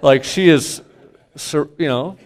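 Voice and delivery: father arguing with his daughter about the poor scale; laughing protest. Retold or imitated. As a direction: argue the point while laughing. Mock argument with daughter.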